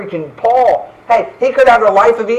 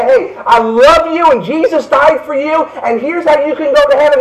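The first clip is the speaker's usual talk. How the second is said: tender invitation; 7 semitones higher, 3 dB louder than usual. Retold or imitated. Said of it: "somebody to say".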